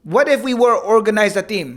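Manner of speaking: put-on amateurish Dagestani accent. Quoting a boastful fighter to a laughing co-host, rough Dagestani accent. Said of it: "I can't do a dag-, I can't do accents".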